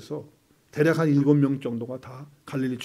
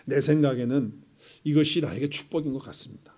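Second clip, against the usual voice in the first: model prayer; 3 dB louder than usual. Shown as a demonstration. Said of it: "이렇게 기도하셔야 돼요".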